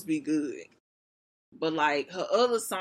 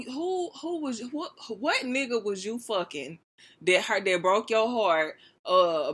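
retold outrage; 3 semitones higher than usual. Retells her own outraged reaction.

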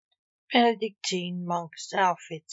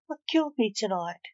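nervously; 2 semitones higher, faster than usual. Acted. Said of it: "Vivienne asked nearly as nervously".

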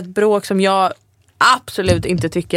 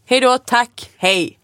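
brisk hang-up demo; 3 semitones higher, slower than usual. Shown as a demonstration. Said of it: "förstår inte att nu lägger jag på".

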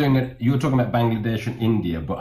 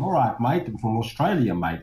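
put-on Australian accent; 3 semitones higher, 4 dB quieter than usual. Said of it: "you should be going".

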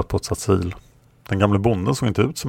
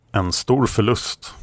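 sorrowful; 3 semitones higher, slower than usual. Acted. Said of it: "sa Kron sorgset".

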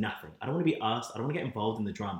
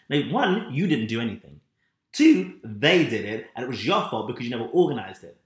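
imitating the boss listing her faults; retold rant; 6 dB louder than usual. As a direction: lay out his faults one by one. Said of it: "And then he's like".

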